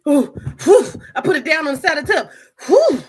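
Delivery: loud, high breathless whew after the toy; blowing out hard, rattled and amazed; worked-up whew. Real, not acted. Vlogger reacting to the toy, loud breathless whew.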